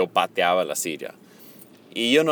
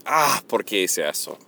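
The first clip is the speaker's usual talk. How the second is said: deep regretful sigh. Shown as a demonstration. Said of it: "un respiro profundo que".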